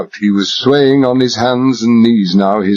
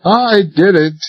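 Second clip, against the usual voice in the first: frightened confession; 8 semitones higher, slower than usual. Acted.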